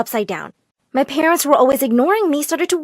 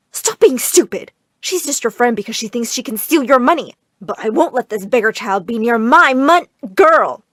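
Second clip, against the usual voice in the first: angry mother; 4 dB louder than usual. Acted. Mother scolding daughter angrily.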